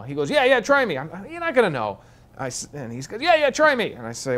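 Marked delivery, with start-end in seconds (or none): 0.3-2.0 much higher, eager and chummy general voice; excited Texan general. Retold or imitated. Retold general from Texas talking. 3.2-3.9 much higher, eager and chummy general voice; excited Texan general. Retold or imitated. Retold general from Texas talking.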